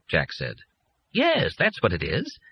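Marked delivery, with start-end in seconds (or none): 1.1-2.4 pleased. A narrator's reading.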